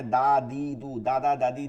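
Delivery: "দা, দি, দু" with a firm, thin d; firm unrounded "দা, দি"; hard thin dal. Shown as a demonstration. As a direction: tap out a hard, light "দা". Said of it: "দাল হচ্ছে শক্ত".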